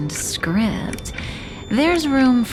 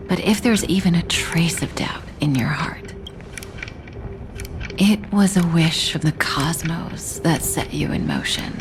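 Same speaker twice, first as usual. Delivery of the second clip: whispering. Acted. Secret prophecy told in whisper.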